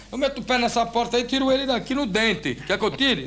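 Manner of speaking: volunteer eagerly to kick the door in; cocky mock tough talk; bravado. Acting strong man offering to break in.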